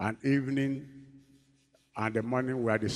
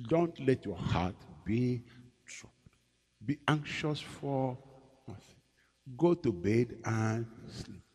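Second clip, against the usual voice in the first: gentle reassurance; 5 dB quieter, slower than usual. Retold or imitated. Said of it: "He said".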